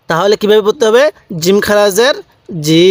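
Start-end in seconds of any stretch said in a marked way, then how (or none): 2.6-2.9 জি held very long on one note; four-alif elongation. Shown as a demonstration. Teacher showing how to read it, জি extended. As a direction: stretch the vowel of জি far out. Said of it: "এরকমভাবে শিখতে হবে".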